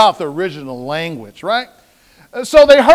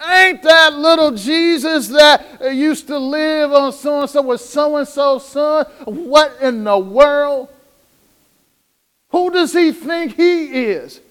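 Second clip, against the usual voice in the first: indignant disbelief; 3 semitones higher than usual. Retold or imitated. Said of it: "So it's like they say".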